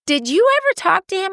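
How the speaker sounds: high-pitched mimic of her mother; mom's eager question. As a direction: ask it like an excited mom. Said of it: "my mom said to me".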